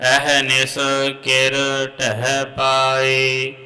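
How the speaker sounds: measured chant of Gurbani; santhya recitation. Real, not acted. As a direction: recite slowly, line by line. (Gurbani ਦਾ ਸੰਥਿਆ ਪਾਠ)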